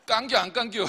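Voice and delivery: punchy Chungcheong twang; Chungcheong dialect. Shown as a demonstration. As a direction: fire it off like a Chungcheong local. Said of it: "충청도".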